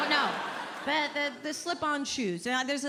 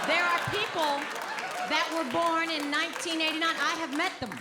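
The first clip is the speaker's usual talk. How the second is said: mock outrage; 5 semitones higher than usual. Comic ranting at the young crowd about ages. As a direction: shout it like a man betrayed by time.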